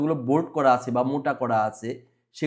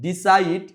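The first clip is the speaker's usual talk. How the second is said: second syllable সাইড of ডিসাইড stressed; stress on CIDE; 2 semitones higher, slower than usual. Shown as a demonstration. Teacher shows pupils the clap syllable, stressed সাইড in ডিসাইড. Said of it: "সাইড উচ্চারণের সময় তালি দিতে হবে".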